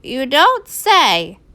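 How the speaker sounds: slow, dry sarcastic drawl; mock surprise, very dry. A narrator's reading. Swamp sarcastic.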